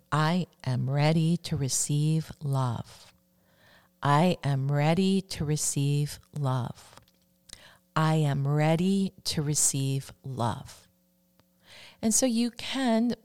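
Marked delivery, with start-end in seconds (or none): 0.1-10.9 slow affirmation. Shown as a demonstration. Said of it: "the fourth one that I'm going to share".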